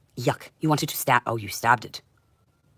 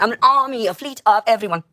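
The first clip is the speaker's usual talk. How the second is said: high, loud proclaiming shout; bellowing her own might; furious shout; 9 semitones higher, 6 dB louder than usual. Real, not acted. Ranting at the world, high furious shout.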